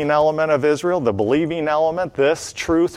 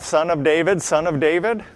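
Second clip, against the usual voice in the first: plain; 4 semitones higher than usual. Shown as a demonstration. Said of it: "Do they call out".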